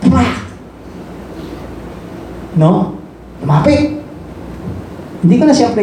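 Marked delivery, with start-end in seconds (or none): 0.1-0.5 spoken smack of something falling; quick mimicked crash; imitated thud. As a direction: voice the sound of a fall. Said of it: "may bumagsak".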